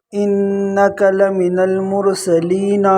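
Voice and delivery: لمن with the noon stretched; slow recitation. Shown as a demonstration. Teacher recites the verse slowly. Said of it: "نون کو الف دے دیتے ہیں".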